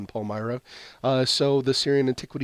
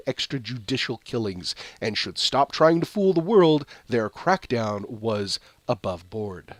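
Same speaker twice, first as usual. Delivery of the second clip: measured newsreader delivery; slow, careful news read; 3 dB louder than usual. Acted. Reads news headline and story.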